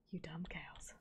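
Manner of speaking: very quiet, low, breath-only grumble; defeated muttering. Real, not acted. Player after the cows escaped, defeated muttering. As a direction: mutter it under your breath.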